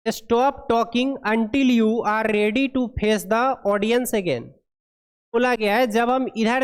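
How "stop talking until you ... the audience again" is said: very slow, word-by-word reading of English text; deliberate classroom read-aloud; slow dictation read. Acted. Reads English guideline aloud.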